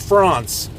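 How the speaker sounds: France as "Frahns", nasal French a; mock French France; French pronunciation. Shown as a demonstration. Vlogger mocks the French pronunciation.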